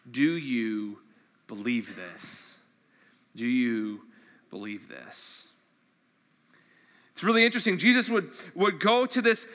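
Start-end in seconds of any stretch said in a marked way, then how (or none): 0.1-2.6 soft, slow, searching question; slow hushed question to the congregation. Acted. Scripture question posed slowly. 3.4-5.5 softer, almost breathed repeat; quiet echo of the question; fading question. Acted.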